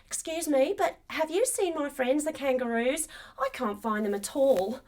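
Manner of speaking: lightly voiced friendly kangaroo; little kangaroo, polite. Kangaroo asks the dingo about her friends, polite.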